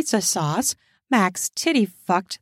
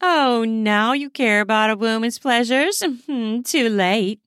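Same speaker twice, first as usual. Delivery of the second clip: mocking cackle. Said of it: "cackled a raven-haired woman".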